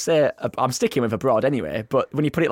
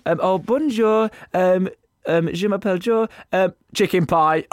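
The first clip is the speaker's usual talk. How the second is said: put-on Northern English accent; 4 semitones higher than usual. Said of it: "saying them in your Northern accent".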